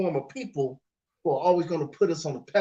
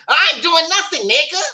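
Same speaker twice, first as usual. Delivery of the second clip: high, loud mock defiance; acted defiant refusal; 11 semitones higher, 7 dB louder than usual. Imitating her once she gets home to you, brash refusal. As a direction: drop the politeness and refuse loudly. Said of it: "but when she get home to you".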